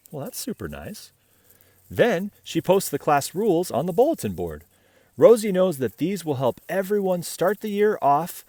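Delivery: bright, even read-aloud voice; story narration. A narrator's reading. Reading a picture book to children, bright storytelling. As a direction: read the tale gently to little listeners.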